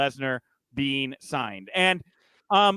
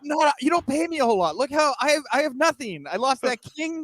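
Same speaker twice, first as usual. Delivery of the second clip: high, pleading put-on whine; hammed-up poor-me voice; mock Corbin whine; 9 semitones higher than usual. Co-host mocks Corbin claiming he's broke, high whiny put-on voice.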